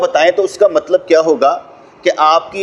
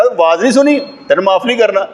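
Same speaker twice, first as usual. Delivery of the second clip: higher, mocking challenge; scornful rebuke; 5 semitones higher than usual. Bystander taunts the pilgrim at the Kaaba, scornful. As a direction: jeer at the man who won't stop praying. Bystander scolds praying man.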